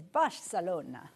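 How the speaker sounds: Barcelona in a light put-on Spanish accent. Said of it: "say it in that accent".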